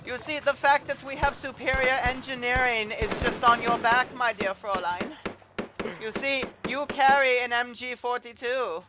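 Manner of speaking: strip the prisoner's kit piece by piece in a hammed German accent; mock German accent. Officer confiscating the prisoner's gear, in a mock German accent. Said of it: "you really gotta work on your German accent".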